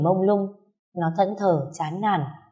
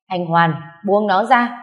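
Anh Hoàn called louder and slow; 5 dB louder, slower than usual. Acted. Nghé calling Hoàn a second time, louder and slower. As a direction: repeat Anh Hoàn with force, drawn out. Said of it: "nó gọi Hoàn không nghe".

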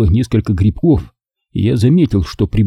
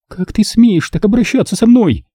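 Nina's high voice, outraged; furious exclaim; 11 semitones higher than usual. A narrator's reading. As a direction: throw the outrage at him. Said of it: "в ярости воскликнула девушка".

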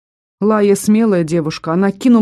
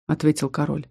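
usual speaking voice

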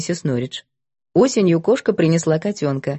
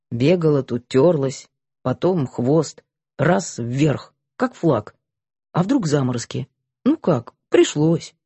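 put-on lower, clipped old soldier; a lightly voiced gruff colonel explaining; 3 semitones lower than usual.

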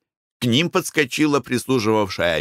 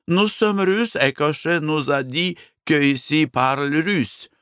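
clumsy French; 7 semitones higher than usual. Acted. Husband tries speaking French.

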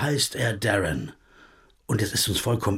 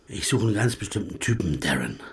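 whisper; 3 semitones lower, 4 dB quieter than usual. Acted. Conspiratorial aside to Darren.

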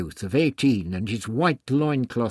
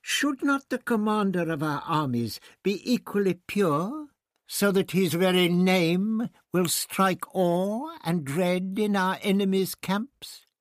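raised voice; 8 semitones higher than usual. Acted. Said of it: "then raised his voice".

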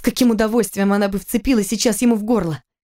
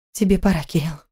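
forced calm. Acted. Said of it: "как можно спокойнее ответила Кира".

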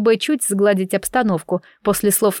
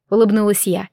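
ordinary delivery

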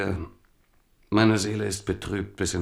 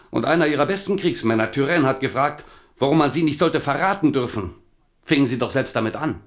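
agitated reproach; 5 semitones higher, 3 dB louder than usual. Acted.

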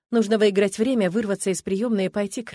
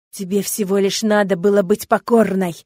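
hissed; 8 dB louder than usual. Acted. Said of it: "шипит он".

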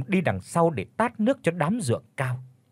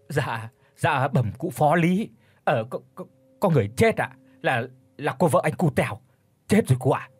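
humble stammer. Acted. Peasant stammers to official.

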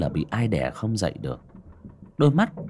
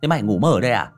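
louder, quick teasing jeer; brisk mocking tease; 2 semitones higher, 4 dB louder, faster than usual. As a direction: scoff at the scared friend. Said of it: "giọng nhạo báng".

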